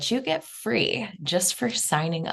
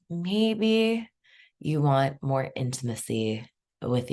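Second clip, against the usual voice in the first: guided meditation. Real, not acted. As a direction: lead them gently inward, unhurried.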